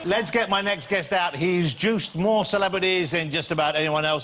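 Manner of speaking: slow, measured announcer build; guest introduction. Real, not acted. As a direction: present the guest grandly, drawing the words out.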